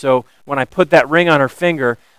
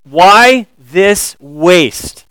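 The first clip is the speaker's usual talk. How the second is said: slow drawn-out indignant question; 2 semitones higher, 3 dB louder, much slower than usual. Retold or imitated. Disciples scorning Mary's gift, slow and indignant. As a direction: stretch it out in disbelief. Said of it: "they were indignant".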